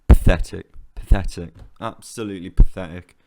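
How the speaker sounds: real angry outburst; furious. Real, not acted. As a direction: spit it out in disgust. Furious after defeat.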